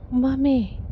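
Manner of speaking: put-on high, small child's voice, falling; toddler calling mommy. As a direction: say it like an amazed toddler. Toddler voiced after gasp.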